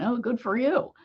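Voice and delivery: dry mock congratulation; a light sarcastic good for you. Shown as a demonstration. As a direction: say it so the praise sounds fake. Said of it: "like, a sarcastic tone".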